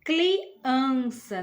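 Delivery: "criança" com L no lugar do R; Cebolinha, R trocado por L. Shown as a demonstration. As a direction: say "criança" as "cliança", L after the C. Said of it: "ele usa a letrinha L". ("criança" pronunciada "cliança", com L)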